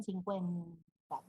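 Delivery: cincuenta dicho con ese nasal inicial, nsincuenta; sin la N. Shown as a demonstration. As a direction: cincuenta arrastrado y sin N clara. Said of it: "no pronuncian la N". (cincuenta como nsincuenta)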